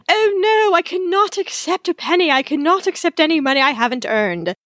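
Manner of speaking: high hammed-up damsel; melodrama heroine. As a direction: overplay the noble refusal. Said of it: "old-fashioned melodrama".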